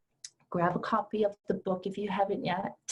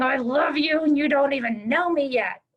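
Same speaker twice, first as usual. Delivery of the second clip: higher, louder, bubbling I love you; gushing affection; 6 semitones higher, 7 dB louder than usual. Retold or imitated. Teacher imagining hugging each woman, loud gushing joy. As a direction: gush it like a big warm hug. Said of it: "I'd be hugging you and going".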